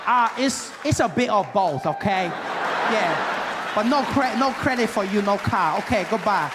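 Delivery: dismissive salesman in a put-on Asian accent. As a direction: lay down the rules in a mock Asian accent. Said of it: "there's this Asian gentleman helping me".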